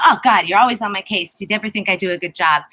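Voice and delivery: quick, mildly exasperated mock complaint; exasperated retort. Imagined reply to a critic, mildly exasperated. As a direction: toss it off like a fed-up reaction. Acts out a defensive reaction.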